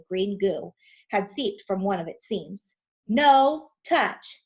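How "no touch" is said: loud, sharp warning; warning yell. Acted. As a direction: warn them off loudly. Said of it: "yelled Tom".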